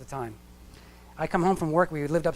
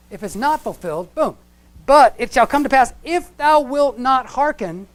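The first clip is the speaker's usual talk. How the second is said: booming, raised divine promise and warning; voice of God; 3 semitones higher, 6 dB louder than usual. Acted. God speaking to Israel, proclaiming blessing and curse. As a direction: proclaim it like God's own decree.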